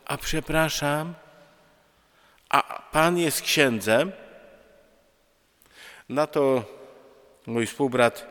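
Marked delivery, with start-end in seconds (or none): 0.1-4.1 slow, tentative polite question; hesitant voice. Retold or imitated. Young woman timidly questioning a stranger on a train, hesitant. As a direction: imitate an unsure, halting inquiry. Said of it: "niepewnym głosem".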